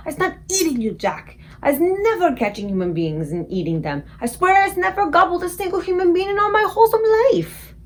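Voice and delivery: high, loud desperate protest; frantic pleading. A narrator's reading. Giant swearing to Jack he eats nobody, desperate. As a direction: swear it in panic.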